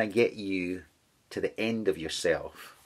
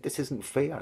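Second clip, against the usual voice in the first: put-on toddler complaint; 6 semitones higher than usual. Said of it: "like when a toddler is making his case".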